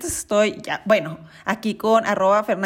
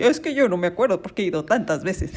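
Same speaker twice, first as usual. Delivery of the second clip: snobby; 3 semitones lower, faster than usual. Retold or imitated. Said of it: "Suena bien mamón esto".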